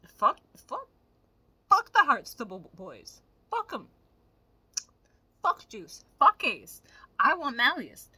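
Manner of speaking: loud, fed-up fan rant. Real, not acted. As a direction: shout them off one by one. Ranting about the Heart boys.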